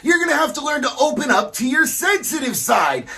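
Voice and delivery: hammed-up sensitive guy. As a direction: overplay the gentle macho mentor. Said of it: "talk like your real self".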